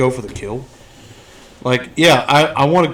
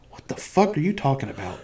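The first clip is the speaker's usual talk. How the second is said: mock Sidney retort; 4 semitones higher, 8 dB quieter than usual. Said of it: "would have said".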